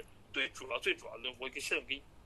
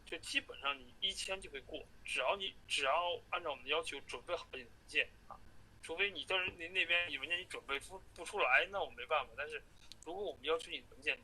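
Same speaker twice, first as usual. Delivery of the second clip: phone call; 3 dB quieter than usual. Real, not acted. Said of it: "下一个录音是我在最后跟他通话的时候".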